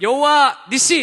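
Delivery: high, loud rally shout; rally cry shout. Retold or imitated. Students shouting the closing cheer, loud and high. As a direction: shout it like five hundred students. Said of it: "이러는 거예요".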